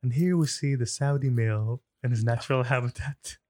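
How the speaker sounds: slow documentary narrator voice; nature documentary narrator. Pretend. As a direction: narrate like a wildlife film. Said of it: "Give me a play-by-play".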